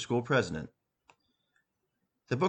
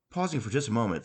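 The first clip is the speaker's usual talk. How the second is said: usual speaking voice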